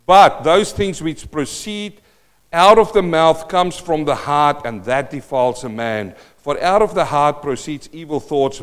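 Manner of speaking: emphatic preacher reading; scripture proclamation. Acted. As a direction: read the verse out firmly, punching the key words. Reads scripture aloud to congregation.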